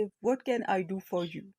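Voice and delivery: said slowly and clearly; slow it down so learners follow; slow model reading. Shown as a demonstration. Teacher to Urdu learners, slow clear model. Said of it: "اس طرح سے بولیں گے".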